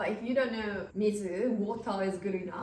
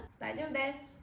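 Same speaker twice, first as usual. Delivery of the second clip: soft, quick and friendly; a gentle smiling "大丈夫です"; smiling polite decline; 4 semitones higher, 5 dB quieter, faster than usual. Shown as a demonstration. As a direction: decline more water with a smile. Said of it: "with smile".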